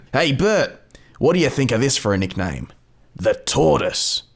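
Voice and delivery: Turtle in a mild Australian accent; lightly voiced Australian Turtle. Shown as a demonstration. Turtle pitching a nickname to Bert, mild Australian accent. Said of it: "speak in his native Australian accent".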